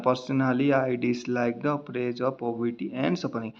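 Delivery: very slow, dragging reading shown as the wrong way; mock-sluggish plodding read; too-slow reading. Shown as a demonstration. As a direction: drag it out word by word to show what not to do. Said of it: "तो ये ऐसे नहीं पढ़ना है".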